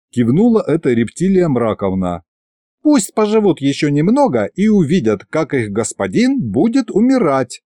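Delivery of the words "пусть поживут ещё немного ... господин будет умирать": gloating goddess voice. Acted. Goddess gloats over victims.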